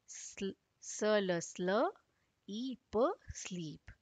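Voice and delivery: स्ल, ई, प blended into स्लीप, sound by sound, the ई long. Shown as a demonstration. Teacher sounds out स्लीप for children, sound by sound. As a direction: break स्लीप into its sounds, then join them. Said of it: "यहाँ पर दूसरा ई silent हो जा रहा है".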